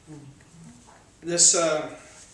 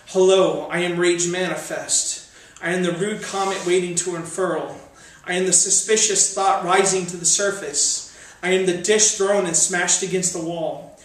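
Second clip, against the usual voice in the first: much louder, higher ranting poem voice; building rage; 4 semitones higher, 8 dB louder than usual. Acted. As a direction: let the anger climb line by line.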